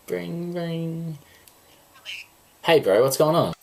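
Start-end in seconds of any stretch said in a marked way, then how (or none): 0.1-1.2 imitated phone ring.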